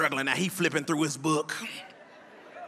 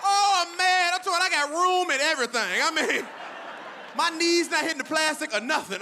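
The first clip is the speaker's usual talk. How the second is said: sarcastic boast; 8 semitones higher than usual. Retold or imitated. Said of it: "I fit in this motherfucker".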